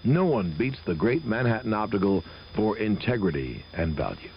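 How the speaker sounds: brisk radio ad read. Acted. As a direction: sell it like a live radio spot. Host reads live optician ad.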